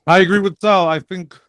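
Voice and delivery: chewing while talking; mouth full. Real, not acted. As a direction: speak through a mouthful. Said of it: "got something in my mouth again".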